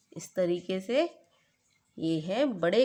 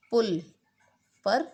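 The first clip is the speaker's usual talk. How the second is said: ordinary talk, nothing marked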